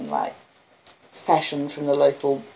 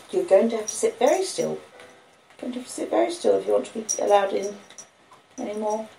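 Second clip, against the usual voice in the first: gentle pet talk; 6 semitones higher than usual. Real, not acted. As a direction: talk the dog into staying still. Instructing the dog.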